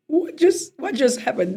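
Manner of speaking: high, stunned question; newly crowned woman asking her dad in shock, bewildered. Retold or imitated.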